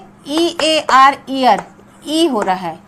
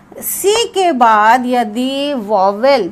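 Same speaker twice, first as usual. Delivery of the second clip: slow dictation; much slower than usual. Shown as a demonstration. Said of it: "ध्यान से सुनिए".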